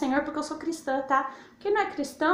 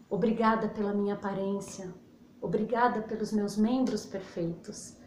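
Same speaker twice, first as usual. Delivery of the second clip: gratitude prayer; 3 semitones lower than usual. Shown as a demonstration. Prays aloud as demo.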